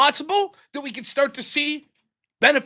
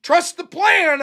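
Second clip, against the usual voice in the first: mock slogan; 4 semitones higher, 4 dB louder, slower than usual. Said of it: "I was told".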